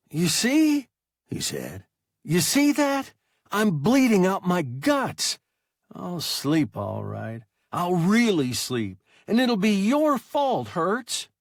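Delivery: high, loud, rising panic; a hurt boy accusing his captain, high and loud; hysterical boy. A narrator's reading. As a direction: push it up toward panic.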